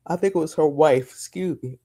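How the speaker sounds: talking through a yawn; words stretched by a yawn. Real, not acted. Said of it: "I can't stop yawning".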